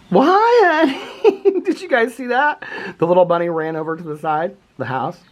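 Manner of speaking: thrilled high voice watching a bunny; delighted high squeal. Real, not acted.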